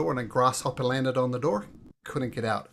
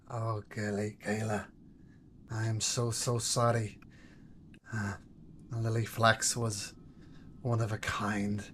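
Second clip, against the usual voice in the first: put-on gentle old counsellor; 5 dB quieter than usual. Oren consoling Gayla over Lily's death, lightly voiced and gentle. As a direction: console a grieving girl tenderly.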